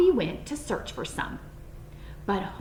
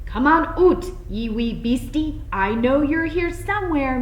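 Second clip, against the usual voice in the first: higher, louder Scottish gardener; Scottish farmer; 4 semitones higher, 5 dB louder than usual. A narrator's reading. Farmer hunting the rabbit, Scottish grumble. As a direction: growl it out as a Scots farmer hunting. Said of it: "Mister McGregor muttered".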